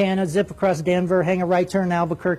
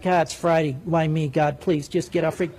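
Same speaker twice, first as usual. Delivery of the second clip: weary controller; 4 semitones lower, 3 dB quieter than usual. Retold or imitated. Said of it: "And Center likes it".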